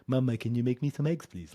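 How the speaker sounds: put-on high, loud childish pleading; whiny baby voice. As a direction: beg like a helpless little kid. Mocks son asking parents like baby.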